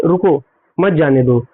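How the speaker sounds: "रुको", brief break, then "मत जाने दो" together; low-pitched "रुको, मत जाने दो", split after रुको; pause after रुको. Shown as a demonstration. Teacher showing how to read it, pause after रुको. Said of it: "इसको हम कैसे पढ़ेंगे?".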